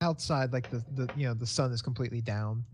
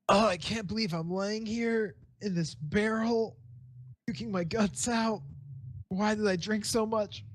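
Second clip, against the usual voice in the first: put-on higher-pitched, regretful drunk's lament; drunken self-pity; 7 semitones higher than usual. Game master voicing a drunkard's thoughts from a barrel, higher self-pitying wail. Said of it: "it's like".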